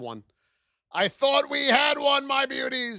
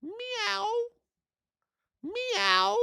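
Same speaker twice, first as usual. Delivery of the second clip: high playful meowing like a cat; squeaky mock cat meow; 11 semitones higher than usual. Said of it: "It could be a cat, too".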